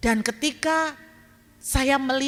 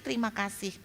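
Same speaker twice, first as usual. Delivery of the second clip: soft trailing-off terima kasih; a hushed whisper-like close to the prayer; fading thanks; 8 dB quieter, faster than usual. Retold or imitated. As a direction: let terima kasih die away quietly. Prayer fades after outburst.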